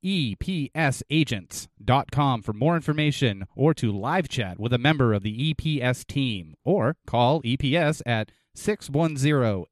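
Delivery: deliberate spelled-out contact details; ad read. Acted. Co-host gives listeners the sponsor's contacts, ad read. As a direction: close the commercial clearly.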